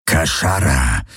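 low creature growl. A narrator's reading. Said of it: "knurrte er".

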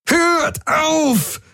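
high, anguished yell with a cry in it; bellowing. Acted. Jun yells at everyone to stop, high anguished bellow. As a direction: scream at them to stop. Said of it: "brüllte Jun".

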